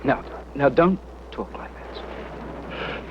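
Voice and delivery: hushed and reassuring; soothing whisper. Acted. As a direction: gently hush him. Sergeant soothes dying captain.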